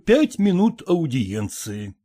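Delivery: pompous formal request to a lady; solemn. Acted. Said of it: "торжественно сказал Ерехонский".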